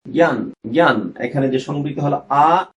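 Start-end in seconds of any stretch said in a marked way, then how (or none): 0.1-1.1 জ্ঞান slowly as "gyan", twice; closed-vowel pronunciation. Shown as a demonstration. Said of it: "এরপর হলো সংবৃত".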